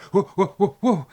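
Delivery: loud whoas through laughter; servants laughing whoa. Acted. Teller voices the waking servants, laughing loud whoas.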